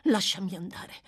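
humble, fervent entreaty; subdued but ardent. Acted. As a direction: beg earnestly, holding it in. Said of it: "sommessamente ma con ardore".

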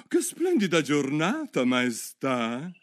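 submissive. A narrator's reading. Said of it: "a voce bassa e sottomessa".

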